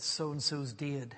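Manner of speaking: drawn-out Batley vowel on "dead"; Batley accent. Retold or imitated. Lad breaking the news to his teacher, in a Batley accent. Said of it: "how he said it in the Batley accent".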